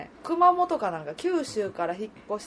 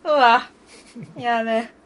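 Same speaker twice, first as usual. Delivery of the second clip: put-on Kyoto accent; 2 semitones higher, 6 dB louder than usual. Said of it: "ちょっとやれよ".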